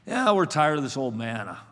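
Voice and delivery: low, weary grumble, imitating complainers; mock complaining. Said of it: "They began to whine".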